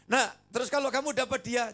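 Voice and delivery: lightly voiced God asking. God's imagined question in sermon.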